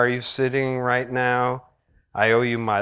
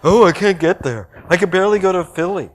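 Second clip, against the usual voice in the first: much higher, gushing and giddy; excited retelling; 8 semitones higher, 3 dB louder, faster than usual. Retold or imitated. Critic on the phone to his wife, gushing high and excited. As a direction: gush like a delighted convert. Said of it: "call my wife and go".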